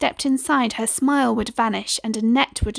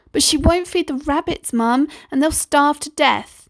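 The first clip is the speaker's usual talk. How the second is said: put-on whiny boy; 5 semitones higher than usual. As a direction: whine to mum about sister. Boy complaining to mum.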